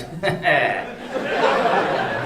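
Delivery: parents' uneasy laugh, imitated; mock awkward laugh. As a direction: dodge the question with a put-on laugh. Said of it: "And they'd be like".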